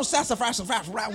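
low muttered cartoon dog grumble; hint of a grumbling cartoon dog; cartoon dog cussing. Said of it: "the dog is cussing".

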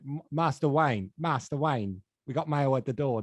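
lightly voiced Cockney film butler; a hint of a Cockney manservant; mild Cockney butler impersonation; Michael Caine. Shown as a demonstration. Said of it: "Yeah, Michael Caine".

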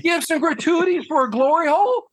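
high, loud, rising disbelief; high loud incredulous question. Retold or imitated. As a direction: ask it in outraged disbelief. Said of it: "I went".

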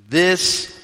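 ordinary talk, nothing marked

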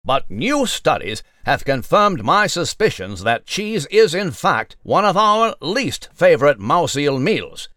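crisp mock newscaster delivery; news read. Mouse Nigel reporting to listeners, in a pompous newsreader voice. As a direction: present it like a formal evening bulletin.

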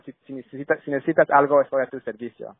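imitating dad's Spanish with a self-admitted bad Spanish accent. Son quoting his father to tenants, in a bad Spanish accent. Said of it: "I'm saying it with a bad accent".

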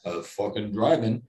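playful put-on Stallone-ish accent. Podcaster retelling his UFO sighting to listeners in a Stallone-ish accent. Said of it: "it's almost Stallone-ish".

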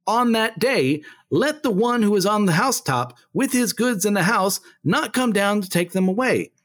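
measured, declarative Bible reading with lifted pitch; Scripture reading. Acted. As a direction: read it out to a congregation as Scripture. Reads Scripture aloud.

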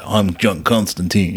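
put-on slow, deliberate "Constantine" ending in -teen; Shia LaBeouf. Quoting the film introduction, slow "Constantine" ending -teen. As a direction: draw out the name, "Constantine" ending like "seen". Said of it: "Shia LaBeouf says it".

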